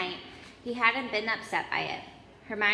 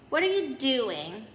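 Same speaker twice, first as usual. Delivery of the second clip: startled, slow challenge; a nervous boy catching them out; 3 semitones higher, 4 dB louder, slower than usual. Acted. Neville catches them sneaking.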